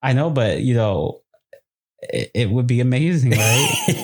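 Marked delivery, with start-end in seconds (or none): 3.3-4.0 high-pitched teasing question; squeaky high right. Real, not acted. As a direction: jump way up on right.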